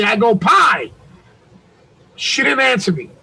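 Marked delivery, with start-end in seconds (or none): 0.3-0.9 drawn-out retold call to a daughter. Retold calling out to his daughter.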